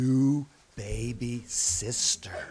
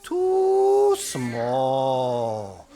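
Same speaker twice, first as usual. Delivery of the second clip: dismissive doctor; 5 semitones higher, 3 dB louder, much slower than usual. Acted. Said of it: "He said".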